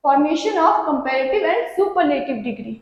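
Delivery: slow, measured topic title; slow heading read. Shown as a demonstration. Teacher announcing the next topic, slow and measured. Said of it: "heading read slowly".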